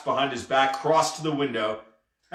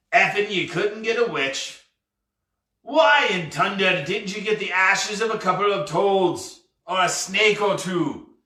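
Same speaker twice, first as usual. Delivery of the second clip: higher-pitched, lightly voiced scolding pirate; exasperated pirate captain; 4 semitones higher than usual. Pirate chiding the lad for lacking ashes, exasperated. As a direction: press the point with mild exasperation.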